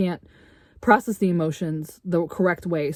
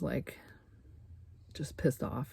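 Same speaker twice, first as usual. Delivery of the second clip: frustrated whisper; 5 semitones lower, 17 dB quieter, slower than usual. Real, not acted. Trailing frustrated aside.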